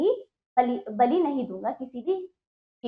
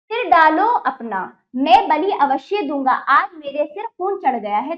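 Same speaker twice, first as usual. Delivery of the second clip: threatening; 4 dB louder than usual. Acted. Lalu threatens sacrifice, furious.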